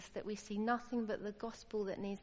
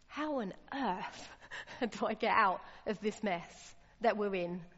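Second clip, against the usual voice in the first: exasperated plea. Acted. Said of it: "He's just saying".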